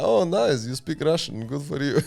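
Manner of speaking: imitated politeness. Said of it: "he's like".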